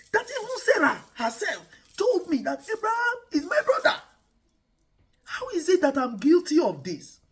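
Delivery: King Abimelech pleads his innocence to God; shocked protest. Retold or imitated. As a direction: protest in frantic disbelief. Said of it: "Abimelech was like".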